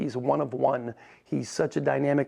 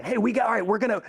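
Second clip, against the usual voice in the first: imitating Coach; 7 semitones higher, faster than usual. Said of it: "he starts talking about the Monday morning meeting".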